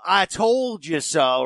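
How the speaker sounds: slow, drawn-out gloating; smug I told you so. Retold or imitated. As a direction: gloat it slowly like a know-it-all. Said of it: "do the whole".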